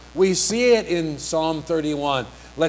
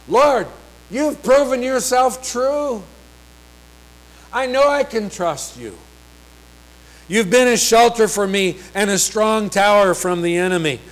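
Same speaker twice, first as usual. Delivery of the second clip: higher-pitched, heartfelt declaration of trust; earnest prayer; 6 semitones higher, 4 dB louder than usual. Acted. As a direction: address the Lord directly, voice lifted. Voicing the psalmist praying to God.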